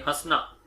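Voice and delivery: soft हंसना through mouth and nose together; nasal demo. Shown as a demonstration. Teacher recalling the chandrabindu example हंसना. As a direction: repeat हंसना quietly with the nasal vowel. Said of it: "मुंह और नाक दोनों उच्चारण".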